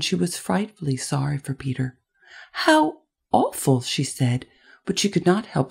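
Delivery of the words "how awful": high, drawn-out commiseration; slow and pitched high, full of pity; sympathetic dismay. A narrator's reading. Girl sorry for boy in story.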